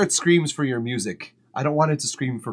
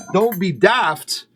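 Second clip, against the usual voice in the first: mock Scottish; 5 semitones higher, 4 dB louder, much slower than usual. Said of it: "I'm not gonna do a brogue".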